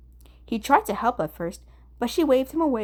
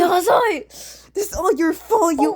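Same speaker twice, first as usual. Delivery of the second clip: much higher, loud blaming yell; furious yell; 10 semitones higher, 8 dB louder than usual. Acted. Kunikida screaming at Dazai, loud furious blame.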